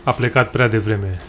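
slow, put-on solemn mourning; mock eulogy. Mourning a beer gone too soon, mock solemn. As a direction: draw it out like a mock funeral tribute.

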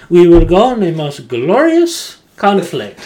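high, loud, gleeful battle cheer; overjoyed French soldier. Retold or imitated. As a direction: sound thrilled to charge in. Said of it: "He's, like, so happy".

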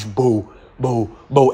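low, mock booming footsteps of a big tiger; heavy footstep sounds. Tiger walking through the forest, mock heavy steps. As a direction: thud out each step like a heavy paw. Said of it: "enquanto ele andava com os passos pesados".

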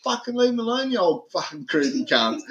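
retold angry telling-off.

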